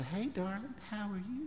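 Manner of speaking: put-on softened baby talk, very high and soft.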